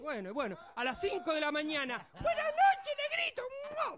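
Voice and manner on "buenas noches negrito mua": very high squeaky greeting; squeaky Pito voice. Retold or imitated. Adalberto greets Cardonga in his squeaky voice, high. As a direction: pipe it out like a tiny voice. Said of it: "la voz de Pito".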